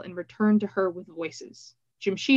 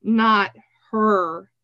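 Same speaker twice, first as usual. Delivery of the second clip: louder, appalled protest; voice shaking; 5 dB louder than usual. A narrator's reading. Keth to Nico about Triss, shaken protest. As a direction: protest in dismay, each word separate. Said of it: "he said, voice shaking".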